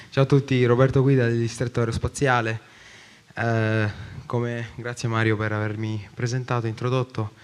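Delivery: out of breath after running; breathless, catching his breath between words. Real, not acted. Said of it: "Scusate un po' di fiatone".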